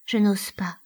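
breath-only frightened admission. A narrator's reading. Elida admits her fear after refusing, hushed. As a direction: drop to a near-whisper. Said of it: "Plus bas".

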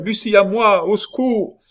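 very high, loud cry; desperate high-pitched shout; screamed for help. A narrator's reading. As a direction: scream for rescue. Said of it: "cria Diane".

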